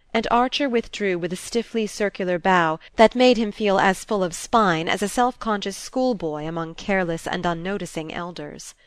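usual speaking voice

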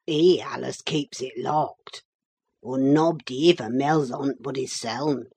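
put-on gruff old servant scoffing at the guest; surly old Yorkshireman. Old servant brushing off the visitor, gruff Yorkshire scorn. Joseph's dialect voice.

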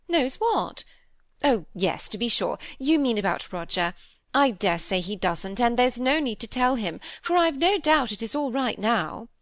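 a gently voiced vain stepmother; fussy stepmother. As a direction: chatter fondly, full of herself. Mrs Gibson voiced by reader.

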